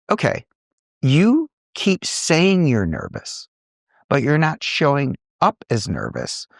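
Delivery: imitating a firm mentor; stern mentor. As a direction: press the point like a tough mentor. Mentor's stern feedback retold.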